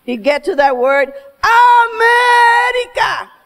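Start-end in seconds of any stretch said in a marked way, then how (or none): 1.4-3.3 slow booming drawn-out AMERICA, much higher and louder; father's proud shout. Retold or imitated. Proud father stands to say America, booming shout. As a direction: proclaim the word like a patriotic anthem. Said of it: "he would never say the word America".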